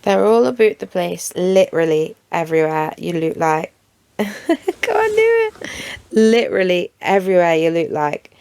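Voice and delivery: amateur stab at Geordie; attempted Geordie accent. Shown as a demonstration. YouTuber attempting Geordie for viewers, rough Geordie accent. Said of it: "me attempting a Geordie accent".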